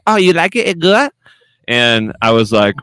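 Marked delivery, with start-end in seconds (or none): 0.1-1.1 put-on high, light Asian-accented voice; imitating nail lady. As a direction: mimic the pedicurist's broken English. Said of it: "She's like".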